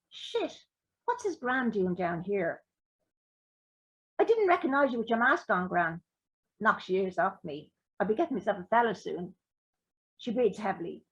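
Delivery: easy reading voice with lightly voiced characters; story narration. A narrator's reading. Author reading Little White Lies to the crowd, story narration. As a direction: read the scene aloud to the audience.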